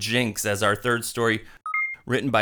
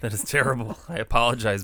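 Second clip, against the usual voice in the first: lozenge in mouth. Real, not acted. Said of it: "I have a lozenge in my mouth".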